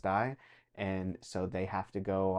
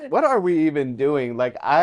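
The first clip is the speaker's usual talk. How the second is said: emotional, near tears; 6 semitones higher, 11 dB louder than usual. Real, not acted. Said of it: "This is an emotional topic".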